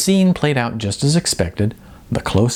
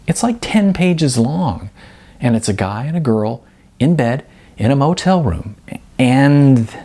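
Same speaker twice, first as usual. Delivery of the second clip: awkward explaining; 4 semitones higher than usual. Acted. Jasmine explaining, trailing off.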